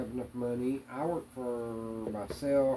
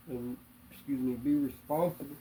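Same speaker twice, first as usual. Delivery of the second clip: speaking through hiccups; 2 semitones higher than usual. Real, not acted. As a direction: hiccups breaking up the words. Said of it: "Excuse me, I got the hiccups".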